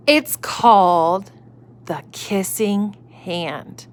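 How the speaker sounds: slow secretive storyteller; hushed reveal. Acted. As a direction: draw it out like a secret. Mother reveals secret slowly.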